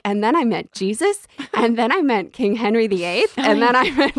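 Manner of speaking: a hint of a breathless name-dropper; listing mock. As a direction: rattle off the list like Forrest Gump. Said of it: "She's like".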